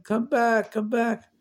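put-on high, urgent call to far-off children; a father's desperate cry from the shore; screaming. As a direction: call them back across the lake. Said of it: "screaming to them".

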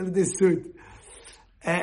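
ordinary talk

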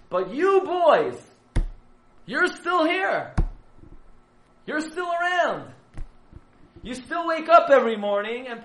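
very high, loud, slow preaching cry; impassioned call. Retold or imitated. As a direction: cry it out like a lion. Herzog calls out to the boys.

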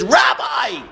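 put-on frail old lady booming from the back of the room; booming call. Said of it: "She has a booming voice".

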